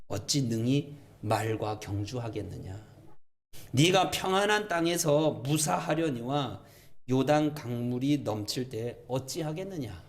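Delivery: measured, deliberate recitation; formal scripture reading; scripture read as God's reply. Acted. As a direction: pose God's question solemnly and evenly. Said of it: "예레미야에게 하나님께서".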